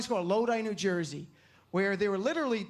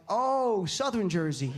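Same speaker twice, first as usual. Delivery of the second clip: put-on dim Jersey-accented realization; much slower than usual. Jersey kid guesses where dad is from, Jersey accent. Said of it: "they have that accent".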